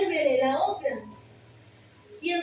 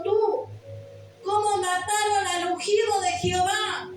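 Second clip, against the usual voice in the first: raised, higher accusing cry; angry rebuke; 4 semitones higher than usual. Retold or imitated. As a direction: hurl the question at the messenger. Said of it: "se enojó contra quien había dado la noticia".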